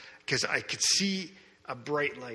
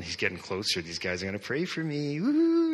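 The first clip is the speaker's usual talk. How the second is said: excited anticipation. Retold or imitated. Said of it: "I'm kinda getting all excited".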